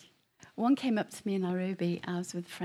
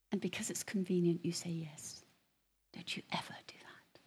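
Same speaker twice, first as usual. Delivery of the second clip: stern hushed voice; 4 dB quieter than usual. Retold or imitated. The inner voice rebuking him for convenient faith, whispered sternly. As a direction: hush it like a voice inside your head. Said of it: "And the voice said".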